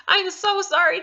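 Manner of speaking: high, loud apology through laughter; laughing apology. Real, not acted. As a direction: giggle out the sorry. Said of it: "I am so sorry for that".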